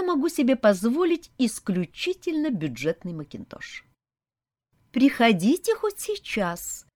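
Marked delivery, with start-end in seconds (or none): 4.9-6.9 polite sleepy. Acted. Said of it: "вежливо ответила мне сонная девушка".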